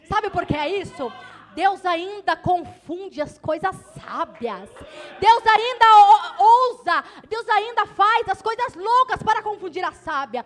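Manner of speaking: loud, slow proclaiming sermon; full-force preaching. Acted. Preacher proclaiming to the church that God confounds the wise, full force. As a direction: thunder it at the congregation.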